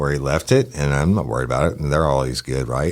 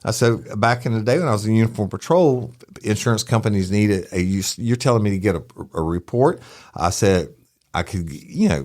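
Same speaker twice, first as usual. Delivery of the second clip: higher, lecturing someone sharply; chewing out; 3 semitones higher than usual. Retold or imitated. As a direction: lay into her, raised pitch. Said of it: "I chewed out".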